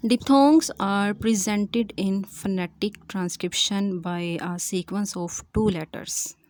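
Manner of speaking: slow, spaced-out dictation of a definition. Acted. Teacher dictating the monophthong definition to students, slowly and deliberately. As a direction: read each phrase slowly so students can write it down.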